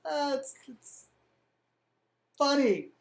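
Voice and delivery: a lightly voiced cornered young ruler; sheepish excuses. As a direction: stall awkwardly, then snap a cheeky brush-off. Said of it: "Alexius is like".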